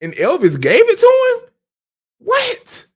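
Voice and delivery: can't believe what she just heard; astonished. Real, not acted. Host reacting to the car story in disbelief.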